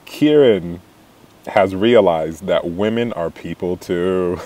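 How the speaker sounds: narrator voice. Retold or imitated. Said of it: "he's like".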